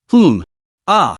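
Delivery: sharp cry of agony; pained cry. Acted. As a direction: cry out in sudden pain. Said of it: "Chen Kiki screamed in agony".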